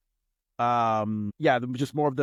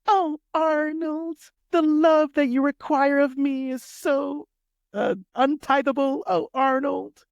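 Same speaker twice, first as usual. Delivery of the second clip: much higher, slow lovesick put-on voice; swooning Helga; 13 semitones higher, 4 dB louder, slower than usual. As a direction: swoon dramatically over your crush. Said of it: "you just nailed Helga to a T".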